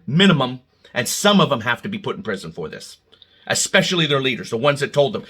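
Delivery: ordinary talk, nothing marked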